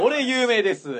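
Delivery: high, loud cocky boast; pushy fan. Retold or imitated. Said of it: "みたいな感じでね".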